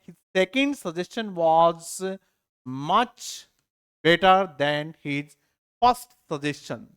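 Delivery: very slow, word by word reading; slow dictation. Shown as a demonstration. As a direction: read it out slowly for students to copy.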